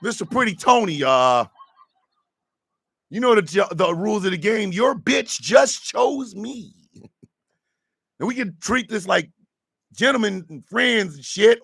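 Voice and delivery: lightly imitated Boston accent as Pretty Tony. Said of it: "With his Boston accent".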